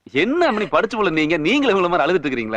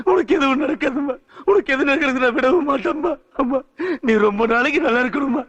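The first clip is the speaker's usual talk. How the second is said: anguished plea, slowing and breaking down at the end; tearful pleading; 3 semitones higher than usual. Acted. Son begging his unconscious mother to live, tearfully pleading. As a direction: plead with her through rising grief.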